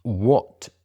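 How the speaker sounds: ordinary talk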